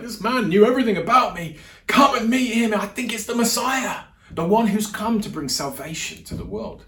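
high, loud, breathless-with-news exclamation; excited proclamation. Retold or imitated. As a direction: act out her urgent good news, easing at the end. Retells woman excitedly telling villagers.

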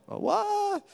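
sudden high startled cry. Retold or imitated. Moses sees his hand turned leprous, high startled cry. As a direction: jump up high in shock at the sight.

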